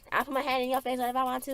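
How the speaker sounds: high-pitched taunting comeback; mock defiant. Answering back in the retold quarrel, mock defiant.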